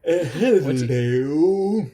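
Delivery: slow drawn-out greeting, lightly voiced; a hint of a sleazy pimp; toothless pimp. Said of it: "a Ponzi pimp flounces over".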